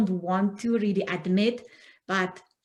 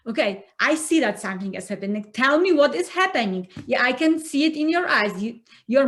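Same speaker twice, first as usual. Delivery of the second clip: higher and louder, insistent prying; pushy partner; 4 semitones higher, 4 dB louder, faster than usual. Acted. Acted partner pushing to talk.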